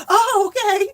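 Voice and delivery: a drawn-out put-on oh of retreat; imitating the lady. The bank lady jumping back, high startled okay.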